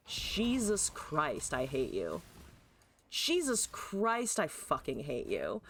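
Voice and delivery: slow drawn-out oath, dropping low; weary, falling exasperation; exasperated loathing. Real, not acted. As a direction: draw out the curse, then sink into disgust. Cursing the opponent.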